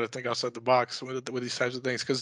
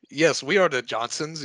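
put-on Chinese accent; 3 semitones higher than usual. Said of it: "That's not, that's not the best Chinese accent".

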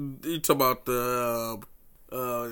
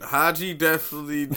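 laughing; 3 semitones higher than usual. Real, not acted. Both laughing at the joke.

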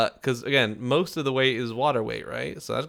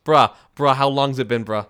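put-on Boston accent; 3 semitones higher, 9 dB louder than usual. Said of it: "do you have a Boston accent".

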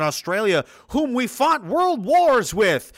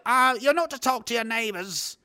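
lightly mocked British accent; prissy British accent scolding the public; 5 semitones higher than usual. Mocking the government in a British accent. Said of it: "that's a British accent".

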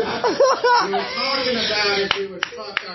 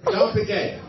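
God's warning said much higher; a hammed-up higher second take; higher mock God; 12 semitones higher than usual. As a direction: repeat it up high as a mocking echo. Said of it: "he said".

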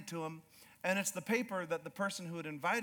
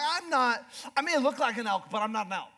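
raised voice calling down the hill; mock shout; 4 semitones higher, 3 dB louder than usual. To hunters in the valley, a mock shout. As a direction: call out to the hunters below, half joking.

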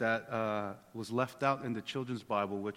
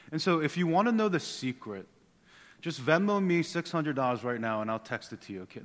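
mock scam pitch; 4 semitones higher, 4 dB louder than usual. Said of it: "No, I'm just kidding".

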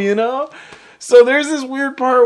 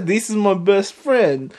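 put-on a light, accidental Russian accent on Johnny's line; 4 dB quieter than usual. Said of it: "I don't know why I turned Russian".

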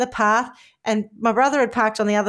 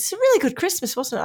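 quoting husband; 8 semitones higher than usual. Retold or imitated. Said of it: "he goes".

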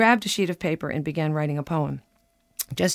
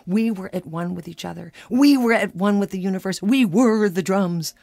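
rising rapture; 3 semitones higher, 3 dB louder than usual. Retold or imitated. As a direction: swell with blissful wonder. Building rapture of drumming.

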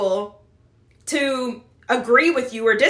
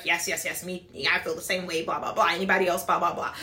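low, much softer droning yeses, mocking; mock chorus of agreement; 8 semitones lower, 8 dB quieter than usual. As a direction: mumble the yeses like a bored echo. Mocking everyone agreeing in group.

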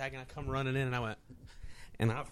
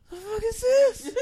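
laughing disbelief; 5 dB louder, slower than usual. Real, not acted. Disbelief at the frog ref.

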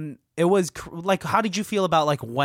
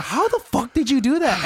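higher, indignant mock outburst; honestly mad, imitated; 9 semitones higher, 4 dB louder than usual. Co-host retells Ike angrily confronting the actor, honestly mad. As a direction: act out an incredulous, angry demand. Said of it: "He's, like, honestly mad".

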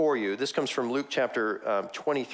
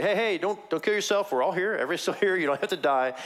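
higher, urgent calling out; 5 semitones higher than usual. Retold or imitated. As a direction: stop him from killing himself. Paul calls out to jailer.

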